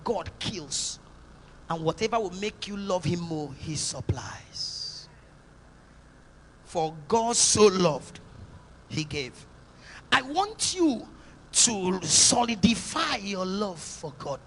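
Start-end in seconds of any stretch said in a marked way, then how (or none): 1.7-9.3 slow, lower whisper; whispered close. Acted. Hushed close to the point.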